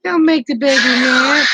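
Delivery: slow teasing call-out; slow shout, half joking; playful shout. Real, not acted. Grandma calling out over a fussy baby, slow playful shout. Baby fussing on live stream.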